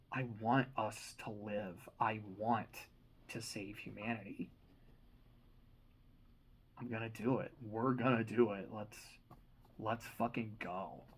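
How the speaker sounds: choked up. Real, not acted. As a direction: hold back crying as you speak. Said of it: "I'm tearing up".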